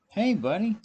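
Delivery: high, loud mock-chummy doctor; imitated cardiologist. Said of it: "Cardiologist goes".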